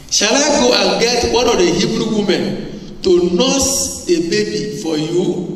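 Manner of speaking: lightly voiced young girl, asking eagerly; a hint of an eager girl offering help; the sister asking. Preacher voicing the sister's question.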